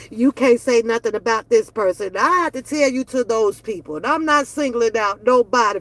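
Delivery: normal talking voice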